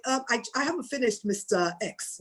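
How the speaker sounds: softly, politely interrupt back; quiet but firm. Shown as a demonstration. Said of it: "Just say very quietly".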